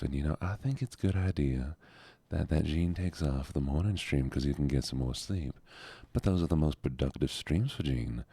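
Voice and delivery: put-on Southern US accent; Southern accent, lightly hammed-up. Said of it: "we're back in Southern Voice".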